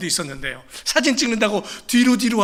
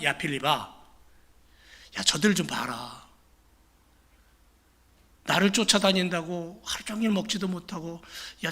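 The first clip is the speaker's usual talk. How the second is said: tender Jesus; 4 dB quieter than usual. Acted. Jesus speaks tenderly to Philip.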